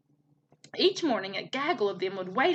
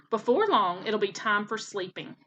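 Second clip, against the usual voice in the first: croaking frog. Acted. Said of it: "croaked one of the frogs".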